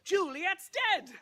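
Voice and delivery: high, loud, drawn-out holler; calling out news. Acted. Townsfolk tell Romeo the news, high holler. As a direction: shout it slowly across the miles.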